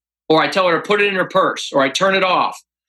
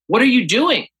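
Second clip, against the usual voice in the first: retold alarmed question; 5 semitones higher than usual. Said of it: "She freaks out".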